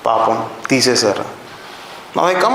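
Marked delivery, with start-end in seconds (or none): 0.1-1.2 low, quick mock pity; a touch of mock sympathy, low and fast; pitying sigh. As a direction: imitate a sympathetic colleague lightly. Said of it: "you're like".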